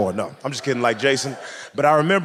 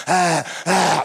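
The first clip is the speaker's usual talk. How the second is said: acted burst of held breath; mock panting release of air; loud exhale; 3 semitones higher than usual. Man who held his breath carrying his date, mock gasping. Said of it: "let it out".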